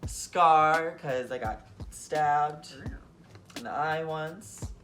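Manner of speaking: sassy runway voice. Acted. Runway voguing commentary.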